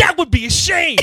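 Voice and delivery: mock slam poetry. Friend finishes a mock slam poem, laughing and loud. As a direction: ham up a slam poem ending through laughter. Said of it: "One more".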